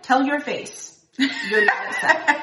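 slow, laughing rebuttal; laughing tease. Retold or imitated. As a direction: tease him through laughter. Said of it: "I'm like".

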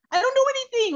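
high, loud mock shout of a grumpy man; retold angry yell. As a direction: bark it like an angry old man refusing. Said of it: "he was yelling".

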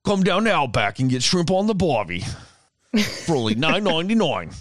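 high, broad mock-Australian ad voice; Australian commercial pitchman. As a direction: sell it like a hammed-up Aussie TV advert. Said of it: "sound just like the guy off the fucking Outback".

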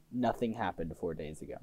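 low mutter. Acted.

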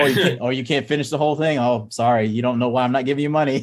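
high, fast, playful teasing; mock teasing parent. Dad mock-teasing his kids about chore money. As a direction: tease the kid in a light singsong.

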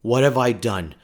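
slowed, worried inner voice; panicked thoughts. Retold or imitated. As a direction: replay the alarm of finding a bomb in your bag. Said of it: "And I thought".

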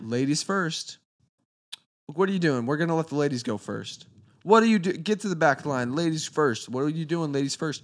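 bossy chivalry, barking orders at the line; pushy guy. Retold or imitated. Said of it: "there's a guy that's like".

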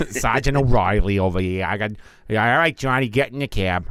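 lightly put-on old-school Irish cop accent; hint of a veteran Irish cop; mock Irish cop accent. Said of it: "your typical old school Irish cop".

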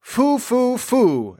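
high hooting cry, dropping at the end; witch exclaiming. A narrator's reading. Witch sniffing out the visiting orphans, high exclamation. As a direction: hoot it out like a storybook witch. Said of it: "exclaimed the witch".

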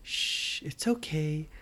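soothing shush. Acted. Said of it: "she went".

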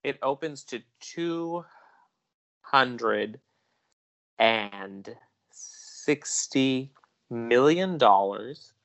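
slow, measured news reporter delivery. Acted. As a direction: read it like a TV box office report. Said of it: "Let me slip on my reporter voice".

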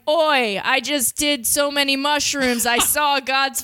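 lightly put-on British tough accent. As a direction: imitate a rough British bloke. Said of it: "a British tough sort of voice".

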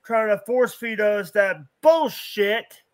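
stammering, worked-up complaint; frustrated, sputtering rant. Real, not acted. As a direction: stumble over the words in exasperation. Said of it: "I can see you getting frustrated".

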